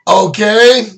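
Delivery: goofy okay. Real, not acted. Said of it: "I don't know why I say that".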